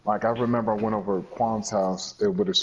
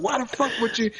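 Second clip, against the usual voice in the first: retold retort; 13 semitones higher than usual. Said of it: "I was like".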